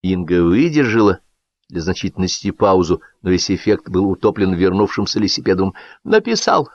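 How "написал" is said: high-pitched angry bark; acted, raised barking voice. A narrator's reading. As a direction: spit out the accusation word by word. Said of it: "произнёс он лающим голосом".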